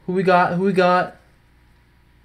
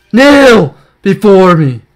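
dark lord; 5 semitones higher, 7 dB louder, slower than usual. Pretend. Gloating over a pull.

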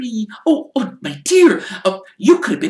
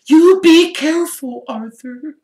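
much higher, louder motherly warning; sharply; 8 dB louder than usual. Acted. Mrs Weasley warning Arthur off the Malfoys, sharp and high. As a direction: scold like a worried wife. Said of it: "said Missus Weasley sharply".

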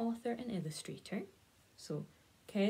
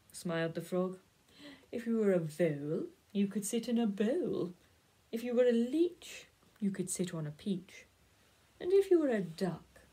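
lightly voiced frog, louder, bouncy rhyme lilt; smug frog; 5 dB louder than usual. Frog rattles off rhymes at the cat, pleased and bouncy. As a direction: reel off the rhymes with a pleased grin.

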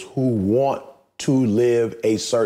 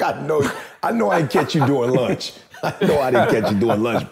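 laughing through a retold complaint; mock indignation broken up by laughter; amused disbelief; 3 semitones higher than usual. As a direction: say it incredulously while chuckling. Laughing retelling of phone complaint.

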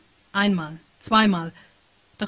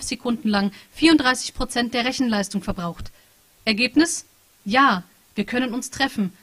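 lightly voiced machine, a touch higher and louder; AI chat program; 4 semitones higher, 5 dB louder than usual. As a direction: read it like an emotionless program reporting data. (leicht angedeutete Maschinenstimme, sachlich und gefühllos)

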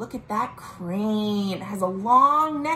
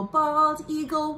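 sing-song call; 4 semitones higher than usual. Shown as a demonstration.

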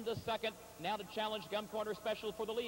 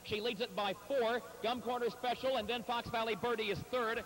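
louder, rising stretch-run excitement; excited finish call; 2 semitones higher, 4 dB louder than usual. Real, not acted. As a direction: call the home stretch with building energy. Race caller calling the finish.

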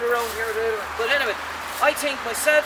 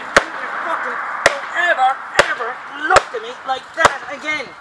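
louder, telling the canvas off; mock tirade at a painting; 5 dB louder than usual. Artist scolding his painting loudly, in mock anger. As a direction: scold the painting like a rude kid. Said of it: "It's by speaking to my paintings".

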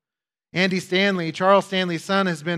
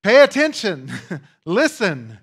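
raised urgent call; 2 semitones higher, 6 dB louder than usual. Real, not acted. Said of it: "calling congregation to attention".

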